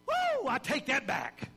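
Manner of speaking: a loud, slowed-down "woo" of instant regret; catching yourself right after hitting send; mock regret. Preacher acting out regret over a sent message, mock alarmed and slow.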